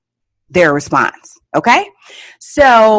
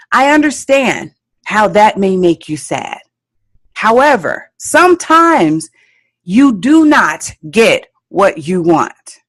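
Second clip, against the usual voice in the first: very clear. Shown as a demonstration. Parent explaining to a sad child they can't always win, very clear. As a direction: spell it out clearly, leaning on the key words. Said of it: "make sure that you are very clear".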